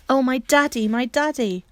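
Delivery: she says it again, glowing and calmer; tender joyful repetition; joyful exclaim. Acted. Bobby retells her cry, calmer.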